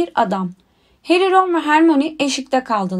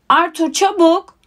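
slow, higher-pitched mild yell; shouting to hurry; 5 semitones higher than usual. A narrator's reading. Wife hurries her husband as the train leaves, mild shout. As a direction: call him to hurry, stretching the words. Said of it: "diye bağırdı Missus Weasley".

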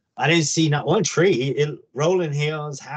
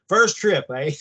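imitated British accent, pitched up; 3 semitones higher than usual. Rancher greeting a newcomer to the place, imitated British accent. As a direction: put on a light, higher-pitched British accent. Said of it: "he had a British accent".

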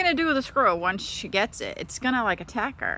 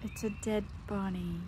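normal talking voice

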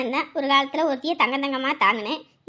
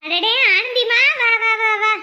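loud, higher delighted greeting; excited welcome; 6 semitones higher, 7 dB louder than usual. Acted. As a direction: welcome them in with gusto. Delighted greeting of arriving relative.

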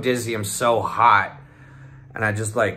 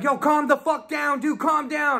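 high, strained urging; urgent calming. Retold or imitated. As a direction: imitate a friend frantically trying to settle someone. Friend restraining him, retold.

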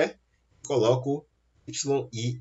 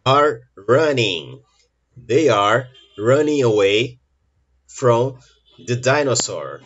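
loud, slow answer reveal; emphatic answer; 6 dB louder, slower than usual. Shown as a demonstration. Teacher announcing the answer to the class, loud and slow. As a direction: call out the answer with force. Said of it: "Qual a alternativa correta?".

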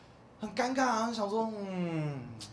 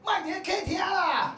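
high, slow mock yell from another room; mother-in-law yelling; 12 semitones higher, 3 dB louder, slower than usual. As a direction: holler it teasingly down the hall. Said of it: "忽然大叫说". (婆婆在房里拖长音的高声大喊)

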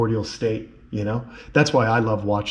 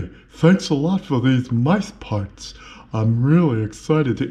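lizard character voice. Pretend. Voicing the lizard thanking for food.

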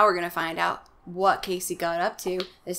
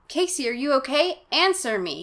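shout; 6 semitones higher than usual. Acted. Margaret shouting down the basement for Casey, worried. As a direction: call him down urgently. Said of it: "he hears Margaret shout".

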